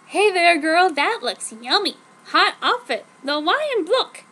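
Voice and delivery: high, loud gushing hello; bubbly girl calling out across the store; perky friend greeting. Acted.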